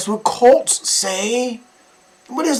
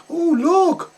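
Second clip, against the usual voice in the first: mocking the mother's delight; 2 semitones higher, slower than usual. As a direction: parody her cooing. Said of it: "She's like".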